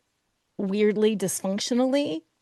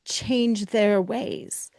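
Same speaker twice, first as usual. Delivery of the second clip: air quotes; much slower than usual. Acted. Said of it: "air quotes".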